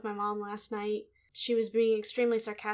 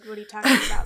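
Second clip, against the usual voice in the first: sarcastic; 12 dB louder, much faster than usual. Retold or imitated.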